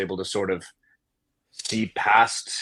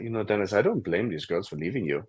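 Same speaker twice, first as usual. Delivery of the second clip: imitating a German mother, lower and matter-of-fact; German accent; 3 semitones lower, 6 dB quieter than usual. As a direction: put on a light German accent, deadpan. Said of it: "with a German accent".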